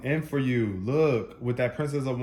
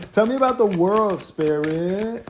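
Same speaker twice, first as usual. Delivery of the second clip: loud, high, drawn-out demand; yelling; 8 semitones higher, 8 dB louder than usual. Real, not acted. Tarot reader demanding the cards speak, yelling. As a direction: call it out slowly at a yell. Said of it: "I don't mean to yell at you".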